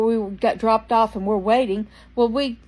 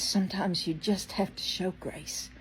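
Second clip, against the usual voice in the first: soft slow whisper right into the ear; retold whisper; 10 dB quieter, slower than usual. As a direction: whisper it gently, like passing on a secret. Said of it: "she whispers in my ear".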